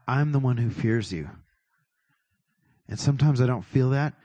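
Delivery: private prayer. Shown as a demonstration. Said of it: "here's how I would do it if it were me in private".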